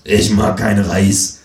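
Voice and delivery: slow, deadpan blurted line; dim Freundlich. Acted. Herr Freundlich blurting out of nowhere, slow deadpan voice. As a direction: blurt it slowly like a dim guest. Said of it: "sagt Herr Freundlich unvermittelt".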